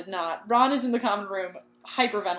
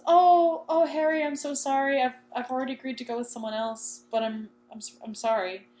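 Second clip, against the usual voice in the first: acted apologetic refusal; 2 semitones higher than usual. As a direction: let someone down gently, haltingly.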